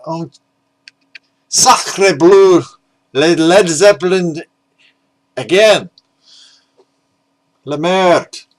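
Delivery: loud, high hammed-up French exclamation; mock French accent. Imitating an outraged French collector complaining about a band, mock French accent. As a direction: play an outraged Frenchman, over the top. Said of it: "there's a French man in Australia going".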